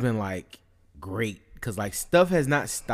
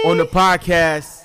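announcer voice; 7 semitones higher, 13 dB louder, slower than usual. Acted. Announcing special guest.

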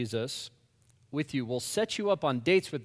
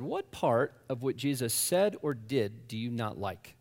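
calm question; 4 semitones lower, 4 dB quieter than usual. Retold or imitated. Asks pointed question.

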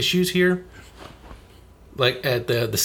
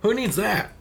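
mocking Nintendo; 3 semitones higher than usual. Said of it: "try to be like".

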